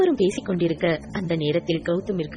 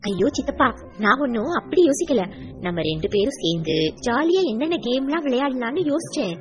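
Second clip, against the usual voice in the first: put-on much higher, eager child protesting; little girl's voice, alarmed; 7 semitones higher than usual. Niece hurrying to reassure uncle, high eager child voice. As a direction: squeal it out like a panicked little girl.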